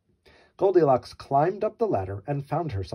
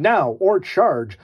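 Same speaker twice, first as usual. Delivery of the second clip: slow, loud drawn-out charge cry; a roaring slow battle yell; dinosaurs yelling; 4 semitones higher, 5 dB louder, much slower than usual. Acted. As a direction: bellow it like a war cry. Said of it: "a trio of dinosaurs yelling".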